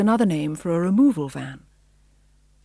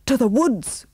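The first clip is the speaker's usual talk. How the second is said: high rallying cry; raised, urgent command; 5 semitones higher, 3 dB louder, slower than usual. A narrator's reading. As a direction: call the troop onward. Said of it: "cried Pongo".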